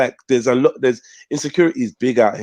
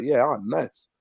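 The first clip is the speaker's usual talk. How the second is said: softer, easygoing reply; calm; 7 dB quieter, slower than usual. Retold or imitated. Bobby no longer being told what to do, calm. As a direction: imitate someone pacified and content. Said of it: "He's calm".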